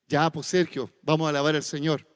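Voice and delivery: brisk nudge to go praise the Lord; wife's prodding. Retold or imitated. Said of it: "y Cindy me dice".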